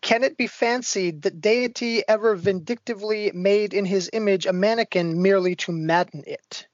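poem recitation. Shown as a demonstration. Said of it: "Edgar Allan Poe, Dactylic Couplet".

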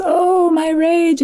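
high, slow, dramatic cry of rage; mock rage. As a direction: wail it out like a furious underworld queen. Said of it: "And she says".

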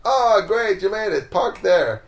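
high-pitched imitation of a pleased host; cheery welcome. Friend greeting the arriving driver, imitated as excited.

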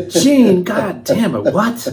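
high, loud mock-angry outburst; exasperated high yell of the husband's name; mother's exasperated snap. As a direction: blurt it at the husband, fed up. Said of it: "she'd go".

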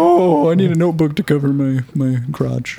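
mock a flustered boy hiding his lap; mock embarrassed guy. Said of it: "they're like".

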